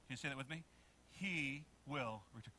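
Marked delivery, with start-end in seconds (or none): 1.1-2.5 low, soft, slow words; quiet prompt. Shown as a demonstration. Preacher leading the congregation to say it, quietly. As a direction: lead a soft, measured repeat. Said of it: "A little bit louder".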